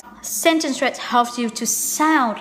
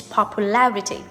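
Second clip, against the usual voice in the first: popuLARity, with LAR stressed; stress on third syllable. Shown as a demonstration. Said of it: "stress change to the third syllable".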